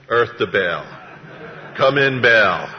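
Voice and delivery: slow-building loud hail; mock radio call. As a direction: call out as if hailing someone far off.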